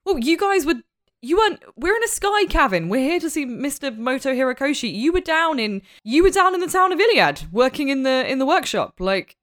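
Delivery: high-pitched, incredulous in-character protest; baffled questioning. Acted. Player's character challenges Lintu about Kuda, baffled and incredulous.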